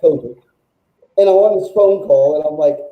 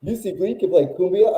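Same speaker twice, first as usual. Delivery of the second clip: rising, doubting cumbia; mock surprise at the idea; incredulous question; 4 dB quieter than usual. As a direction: echo it back in disbelief. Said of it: "Pedro looks at me and goes".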